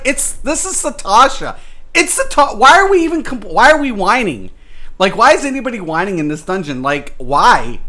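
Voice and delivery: an incredulous retort to whiny players; exasperated rant. Retold or imitated. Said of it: "that's what I said".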